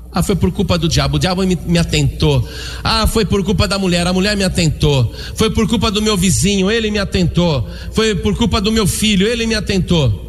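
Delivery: singsong list of excuses, pitch climbing; mock excuse-making. Mimics people making excuses.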